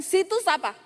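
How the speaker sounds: high, brusque mock demand; imitated rude question. Woman's earlier rude way of addressing the preacher, brusque. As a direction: mimic a curt, disrespectful asker. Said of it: "Tadi kan".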